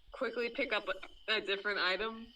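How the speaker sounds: speaking through hiccups; words broken by hiccups. Real, not acted. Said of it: "I'm sorry, I have the hiccups".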